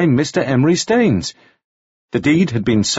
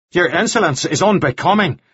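mildly angry, raised-pitch reproof; indignant rebuke; 6 semitones higher than usual. A narrator's reading. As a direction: scold her for impudence, pitch up. Quarrel, Devlin rebukes Anna.

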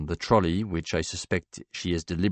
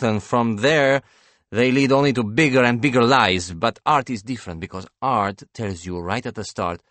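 higher, louder painter's voice, easing at the end; earnest painter, animated; 5 semitones higher, 5 dB louder than usual. Acted. Painter explaining a philosopher to confused banker, animated. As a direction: explain a hero's ideas with animated conviction.

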